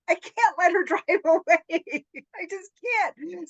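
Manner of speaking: high, loud, drawn-out mock desperation; retold excited urgency. Recalling not letting a new acquaintance drive away, hammed-up urgency. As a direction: stretch it out, hammed-up and half laughing. Retells her urgent impulse to act.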